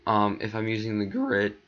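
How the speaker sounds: sudden crack in the voice. Real, not acted. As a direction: voice cracks on the line. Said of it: "that voice crack".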